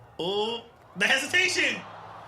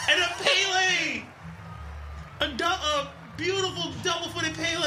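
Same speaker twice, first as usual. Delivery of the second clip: delighted; 4 semitones higher than usual. Real, not acted. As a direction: savor the beautiful move. Delighted at the move.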